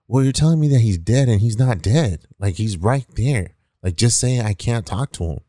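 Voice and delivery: indignant protest. Retold or imitated. Kid argues with cop over his dead friend, indignant. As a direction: retell a kid stubbornly arguing back. Acted argument back at the cop.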